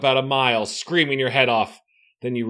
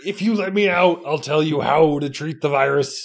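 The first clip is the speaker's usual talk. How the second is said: coaxing creature; 3 semitones higher, 4 dB louder than usual. Acted. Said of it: "Spy Eye's voice grows softer, gentler".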